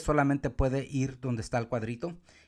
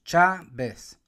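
"Chávez" in two pieces, firm and louder on Chá; split into syllables; 2 semitones higher, 5 dB louder than usual. Shown as a demonstration. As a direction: count out Chávez as chá, vez. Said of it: "Uno, dos".

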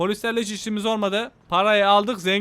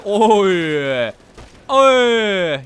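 loud startled oy; 6 dB louder than usual. Real, not acted. Hit by gunfire in game.

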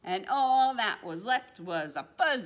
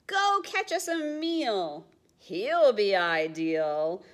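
character order, raised; 6 dB louder than usual. Acted. Percy ordering in picture book.

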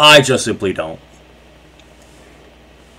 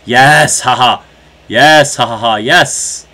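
laughing cheer; 5 dB louder, slower than usual. Real, not acted.

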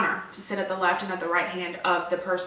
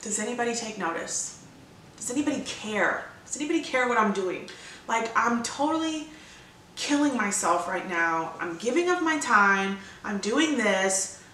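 inner complaint. Retold or imitated. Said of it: "asking yourself".

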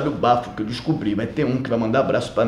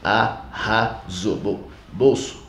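slow, stretched camp admiration; drawn-out praise; much slower than usual. Acted. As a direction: savor every syllable.

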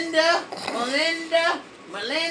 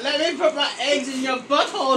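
spider's request; 2 semitones lower, 4 dB quieter than usual. Pretend. Voicing spider, first softer take.

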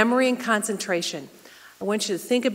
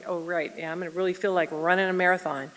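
a quiet mock-sarcastic aside; teacher mimicking her patients' sarcasm; sarcastic imagined patient; 3 semitones lower, 5 dB quieter than usual. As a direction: voice the class's eye-rolling thought, softer. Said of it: "you're all looking at me like".

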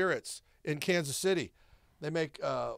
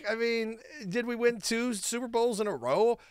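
smug gloating; 4 semitones higher than usual. Acted. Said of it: "Why do you say it like that?".

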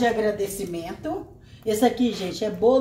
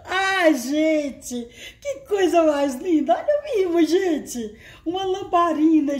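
higher, laughing with excitement; delighted; 4 semitones higher than usual. Real, not acted. Unboxing a lamp from a viewer, laughing and excited. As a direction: gush over the gift with laughter in the voice.

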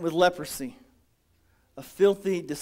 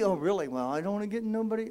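hesitant visitor; 6 dB quieter, faster than usual. Retold or imitated. Visitor's reply voiced.

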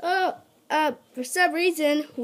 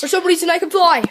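excited squeaky voice; 9 semitones higher, 9 dB louder, faster than usual. Acted. Character voice.

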